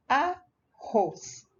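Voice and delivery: "arroz" split in two, A... rroz; separated syllables. Shown as a demonstration. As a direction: pause between the syllables of "arroz". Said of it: "você vai separar a sílaba da palavra".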